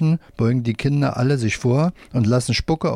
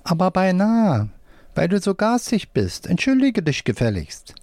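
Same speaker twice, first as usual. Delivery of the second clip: scolding puppet voice; 8 semitones higher than usual. A narrator's reading. Right-hand puppet scolds.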